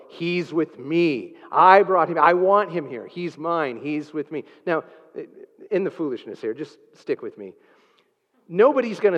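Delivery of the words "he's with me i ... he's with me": firm reassurance. Pretend. Preacher answering the objector, protective and firm. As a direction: stand up for him, then settle gently. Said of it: "Then I will tell them".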